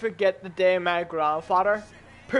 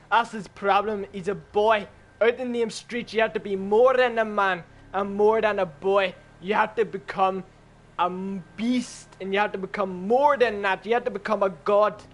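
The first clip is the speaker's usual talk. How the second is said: put-on Russian accent; 3 semitones lower than usual. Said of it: "in a Russian accent".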